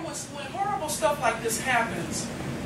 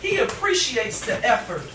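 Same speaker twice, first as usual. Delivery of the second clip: rhythmic, weighted spoken word; impassioned poetry reading; poem recitation. Acted. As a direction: perform it to a live audience.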